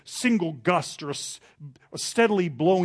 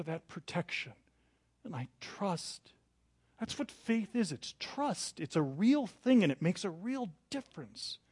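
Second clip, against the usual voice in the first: soft sincere; 4 semitones higher, 5 dB quieter than usual. Real, not acted.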